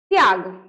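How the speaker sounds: त्याग said tyaag, t straight into ya; त्याग as one quick syllable; half t joined. Shown as a demonstration. Teacher demonstrating the half t, one syllable. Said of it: "इसको क्या पढ़ेंगे बताइए तो?".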